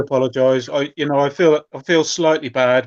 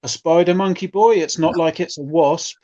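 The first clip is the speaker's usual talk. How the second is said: reading a chat comment; 4 semitones higher than usual. Retold or imitated. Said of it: "Novelization Geek here saying".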